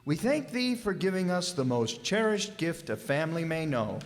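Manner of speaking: reverent, measured grace at the table; solemn Thanksgiving prayer. Acted. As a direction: say grace humbly for the family. Father says a special grace.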